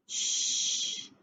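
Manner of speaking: unvoiced secretive shh; shushing. Narrator hushing the listeners to keep a secret, whispered shh. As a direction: hush the listeners conspiratorially. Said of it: "we don't want him to know that".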